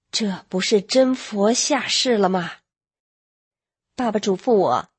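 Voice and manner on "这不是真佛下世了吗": slow, each word set apart. Retold or imitated. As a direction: spell it out deliberately, slowly. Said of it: "我爸一字一板地说". (一字一板地慢慢说)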